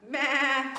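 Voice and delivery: mock goat meh; playful goat noise; goat bleat. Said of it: "said Goat".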